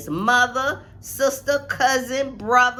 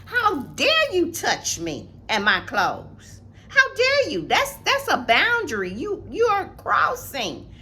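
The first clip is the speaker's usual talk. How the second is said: indignant; 4 semitones higher than usual. Acted. Confronting the bully in speech.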